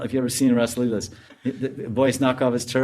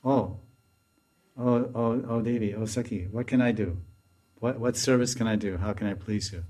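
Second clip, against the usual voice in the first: tender plea; 5 dB quieter than usual. Acted. Maidservant prays to Radharani.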